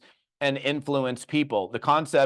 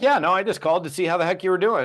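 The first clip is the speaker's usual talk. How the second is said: breezy reply; 5 semitones higher, faster than usual. Retold or imitated. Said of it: "I'm like".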